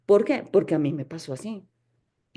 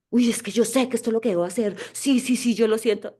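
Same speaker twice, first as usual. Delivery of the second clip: a hint of eager, gushing self-assurance; mock ego voice; 3 semitones higher than usual. Teacher imitating a student's ego, mildly gushing. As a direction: play the giddy ego, lightly. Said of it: "Ahí está el ego".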